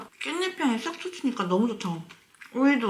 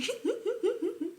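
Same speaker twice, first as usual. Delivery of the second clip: sudden high-pitched giggle; 12 semitones higher, 7 dB quieter than usual. Real, not acted. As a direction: burst into a squeaky laugh. Laughing at her own overfilling. (높은 웃음소리)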